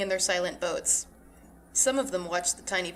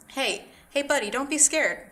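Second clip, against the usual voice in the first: soft, soothing; 6 semitones higher than usual. A narrator's reading. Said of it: "The giant's tone was soft, soothing".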